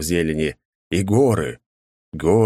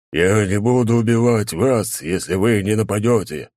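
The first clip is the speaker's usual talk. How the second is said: growling; 4 semitones higher than usual. A narrator's reading. Knight growls at soldiers.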